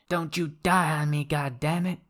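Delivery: high desperate plea; hammy death scene. Acted. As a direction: beg him not to die. Acted death scene, medic pleading.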